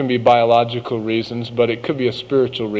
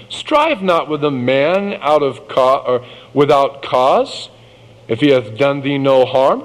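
scripture reading; 3 semitones higher than usual. Acted. Reads Proverbs aloud.

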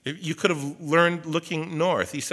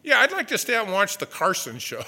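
put-on kid pleading; 7 semitones higher, 6 dB louder than usual. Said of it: "I go".

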